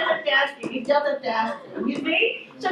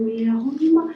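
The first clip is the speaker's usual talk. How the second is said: huffy mock scolding; exasperated husband; 4 semitones higher, much faster than usual. Husband teasing wife about mishearing, fast exasperated. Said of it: "とmy husband said".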